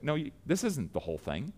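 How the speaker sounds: Peter, before the church, calls out Ananias with mounting anger; Peter's stern rebuke. Retold or imitated. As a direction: demand it like an outraged apostle confronting a liar. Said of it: "and Peter's like".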